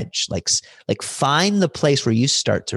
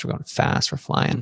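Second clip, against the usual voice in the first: breathless half-whisper, softer; hushed thrill; 4 dB quieter than usual. Real, not acted. Telling the host about flying downhill, hushed. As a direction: hush it as if reliving the rush. Reliving the fast downhill ride.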